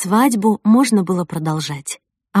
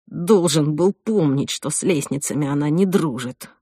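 dejected; 2 semitones lower than usual. Acted. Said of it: "упавшим голосом".

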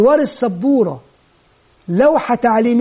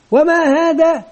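higher-pitched classroom question; teacher quizzing; 4 semitones higher, slower than usual. Acted. Teacher asking children about the letter, quizzing. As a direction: prompt the class for an answer.

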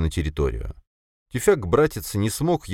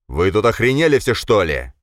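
loud, high outraged yell; furious shout; 4 semitones higher, 5 dB louder than usual. Acted. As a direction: blow up at the whole room. Enraged man shouts at everyone.

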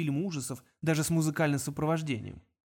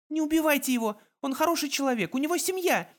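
put-on higher, pleading girl's cry; desperate girl; 11 semitones higher, 3 dB louder than usual. A narrator's reading. Girl begs Kong to spare the guard, desperate. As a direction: beg him not to kill.

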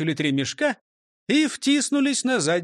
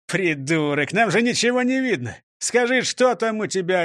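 high-pitched, irritated demand; barked demand; 3 semitones higher than usual. Acted. Chief in a sack demands answers, irritated bark. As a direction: snap at him impatiently, voice rising. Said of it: "рявкнул шеф".

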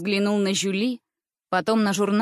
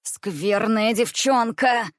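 angry; much slower than usual. Acted. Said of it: "она вся дрожала от волнения и гнева".

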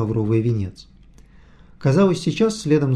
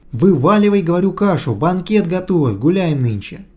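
rowdy; 5 semitones higher, 4 dB louder than usual. A narrator's reading. Vityukha calling for a feast.

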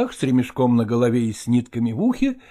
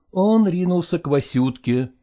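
ordinary delivery

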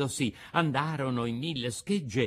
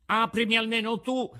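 higher, louder desperate plea; pleading cry; 10 semitones higher, 4 dB louder than usual. A narrator's reading. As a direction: beg through tears to be let in. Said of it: "gridò Pinocchio, piangendo e raccomandandosi". (grido supplichevole)

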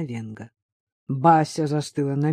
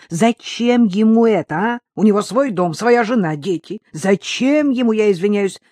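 heated, raised-voice questioning; exasperated, sarcastic disbelief; indignant challenge; 3 semitones higher, 3 dB louder than usual. Acted. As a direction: fire off scornful questions. Acted quarrel, sceptical interrogation.

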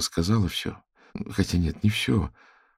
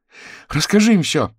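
much higher, louder shout with a breaking voice; cracking shout; 12 semitones higher, 7 dB louder than usual. Acted. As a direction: scream at him to tell them. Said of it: "срывающимся голосом закричала она".

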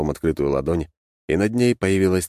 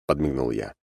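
ordinary delivery

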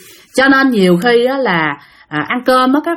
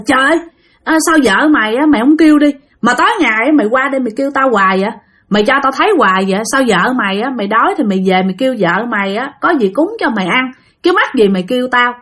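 annoyed retort; 3 semitones higher, faster than usual. Retold or imitated. Arguing back in a dream.

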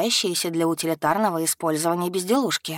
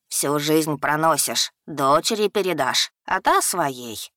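lightly voiced old shopkeeper; old man voice; 3 semitones lower than usual. Old shopkeeper explains the wood.

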